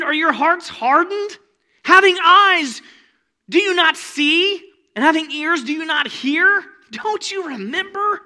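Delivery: loud, high, pleading rebuke; rebuking Jesus. Acted. Jesus rebuking the disciples in the boat, loud and pleading. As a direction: press them hard with questions.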